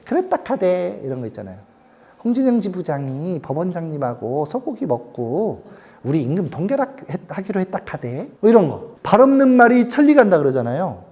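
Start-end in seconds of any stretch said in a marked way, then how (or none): 0.0-1.0 Gyeongsang dialect. Retold or imitated. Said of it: "경상도 말로 해줘야 돼". 2.2-8.3 Gyeongsang rumor. Retold or imitated. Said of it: "경상도 말로 해줘야 돼".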